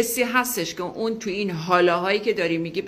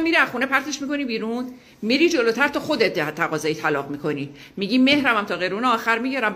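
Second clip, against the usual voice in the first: forceful advice; 4 semitones higher than usual. Retold or imitated. Urging student to act firmly.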